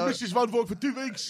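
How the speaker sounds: very high outraged shopkeeper voice; angry shopkeeper. Retold or imitated. Shop owner ranting at the customer in the sketch, very high. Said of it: "We can do a free accent".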